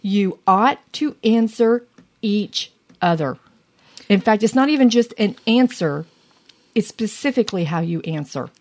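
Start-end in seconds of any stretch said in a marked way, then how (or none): 0.0-3.4 scripture reading. Acted.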